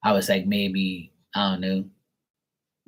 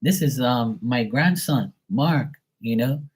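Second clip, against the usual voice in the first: higher-pitched imitation of grandma; lightly voiced grandma introducing her grandson; grandma quote; 5 semitones higher than usual. Grandma introduces grandson to her sister, lightly imitated. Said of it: "She goes".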